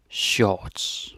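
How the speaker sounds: shorts in a Danish accent, R dropped. Shown as a demonstration. Teacher showing the same word with a Danish accent. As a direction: say shorts the Danish way, "shots" with a rounded vowel. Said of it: "But with the Danish accent".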